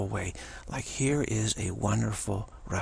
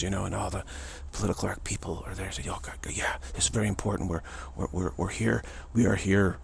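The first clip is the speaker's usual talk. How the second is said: solemn funereal tones; 3 semitones lower than usual. Retold or imitated. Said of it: "he speaks in very funereal tones".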